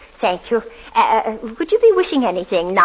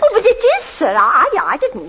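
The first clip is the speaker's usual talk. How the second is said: high, pleading reassurance; anxious to placate him; high flustered plea; anxious protest; 8 semitones higher than usual. Acted.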